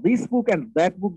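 "this" and "that" given extra weight; stress on THIS and THAT. Shown as a demonstration. Teacher repeating the example to show stress, THIS and THAT stressed. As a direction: punch "this", then punch "that". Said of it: "stress দিতে হয়েছে".

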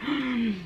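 quick imitated gasp of alarm; frightened gasp. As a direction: gasp as if suddenly startled. Retold fright at banging.

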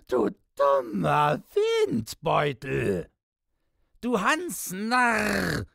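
very high, screaming rage; raving. A narrator's reading. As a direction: rave and curse at the top of your voice. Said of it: "Piepsam tobte noch immer".

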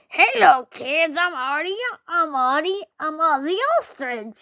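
a lightly voiced cheerful mascot greeting; voicing Ozzy Ostrich. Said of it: "I hate my voice".

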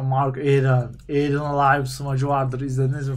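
low-pitched storyteller impression; Murat abi. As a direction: imitate a commentator reminiscing in a low, level voice. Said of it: "Murat abi anlatıyordu".

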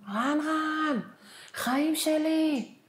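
retold joyful scream. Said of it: "כולי צורחת".

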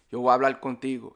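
fast "yo wa ablal contigo" for "Yo voy a hablar contigo"; merged, L for R. Shown as a demonstration. Teacher repeating it at natural speed, merged with L. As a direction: run "voy a" into "wa", end "hablar" on L. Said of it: "we will add the L".

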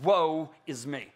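low, slow, understated lament; heavy, slow admission of ruin; despairing cry. Acted. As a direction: let it sink low, as if collapsed in dread. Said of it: "and cries out".

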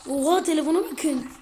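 high, loud swoop of amazement; amazed exclamation. Real, not acted. Gamer points viewers to the phone, amazed exclamation. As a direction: exclaim it in awe.

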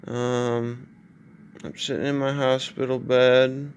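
drowsy, slurred post-anesthesia speech; groggy after surgery. Real, not acted. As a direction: talk through a stiff, broken jaw. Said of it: "I just woke up from surgery".

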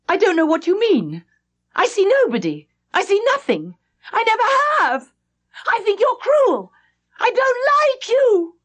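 put-on high, hard little girl's voice; a cold child turning on her; sulky child Flora. A narrator's reading. Flora telling the governess she is cruel, in a high child voice.

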